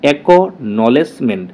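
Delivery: অ্যাকনলেজমেন্ট said very slowly, syllable by syllable; broken into syllables. Shown as a demonstration. Teacher showing students how to say the word, very slow syllables. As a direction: pull অ্যাকনলেজমেন্ট apart slowly, one syllable at a time. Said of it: "এতটুকু হচ্ছে তোমার একটা syllable".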